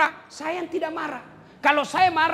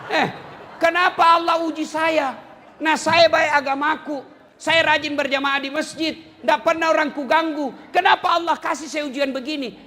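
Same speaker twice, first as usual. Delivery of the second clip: aggrieved complaint; 3 semitones higher, 4 dB louder than usual. Retold or imitated. Believer complaining to God.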